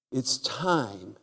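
ordinary talk

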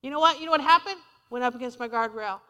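ordinary talk

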